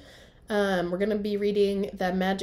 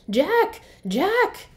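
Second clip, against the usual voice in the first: much higher, louder shouted name; shouting; 11 semitones higher, 8 dB louder than usual. Acted. Annie calling her brother from the woods, excited shout. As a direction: shout for your brother from far off. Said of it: "Annie shouted".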